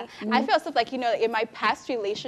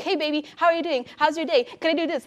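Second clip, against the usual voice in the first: put-on doting boyfriend; 4 semitones higher, faster than usual.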